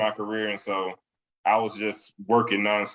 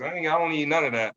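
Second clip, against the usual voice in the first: put-on higher, quick, know-it-all young adult brushing off parents; mock-defiant young grown-up, pitched up; cocky young adult; 6 semitones higher, faster than usual. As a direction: toss it off like a teen who thinks he's grown. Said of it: "a lot of young adults get".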